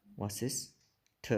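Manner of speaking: वशिष्ठ drawn out slowly, ending on an aspirated ठ; variant pronunciation. Shown as a demonstration. Teacher showing how some people say वशिष्ठ, slowly. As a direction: say वशिष्ठ slowly and softly, stressing the final ठ. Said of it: "दोनों का उच्चारण अलग हो गया ना".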